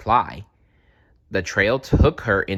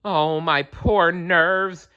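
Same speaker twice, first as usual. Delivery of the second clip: higher, slow, fretful rabbit squeal; nervous father rabbit squealing before he faints; 9 semitones higher, 4 dB louder, slower than usual. A narrator's reading. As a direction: wail it as if about to faint. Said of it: "squealed Father Rabbit".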